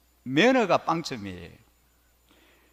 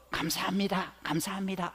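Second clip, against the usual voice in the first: kindly thanks; 3 semitones higher, 7 dB quieter than usual. Retold or imitated. Japanese shopkeeper thanking a customer who leaves without buying, kindly and softly. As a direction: imitate a courteous shopkeeper, softly. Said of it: "아주 친절하게".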